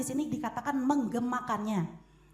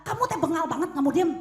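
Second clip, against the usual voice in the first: harsh scolding; 4 semitones higher, 6 dB louder, faster than usual. Retold or imitated. Parent scolding child harshly.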